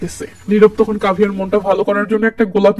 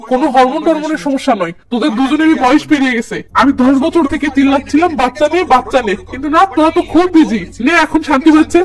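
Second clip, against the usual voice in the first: mother's scolding, rising higher toward the end; a touch of rage, pitch climbing as she goes; angry scolding; 4 semitones higher than usual. Acted. Mother scolds son and wife for waiting too long, mildly angry. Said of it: "মা রেগে মেগে বলে".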